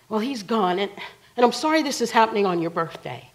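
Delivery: loud, hurried retold apology; flustered outburst. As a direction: blurt it out on the way out. Frantic woman's parting words retold.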